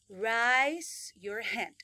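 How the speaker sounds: over-articulated classroom command; exaggerated command. Shown as a demonstration. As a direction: stretch out "raise your hand" like a teacher. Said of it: "el inglés es exagerado para pronunciarse".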